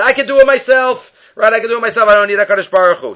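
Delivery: high-pitched mock bragging; lightly acted self-sufficient boast. Southerner boasts that he doesn't need Hashem, mock bragging. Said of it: "so he boasted".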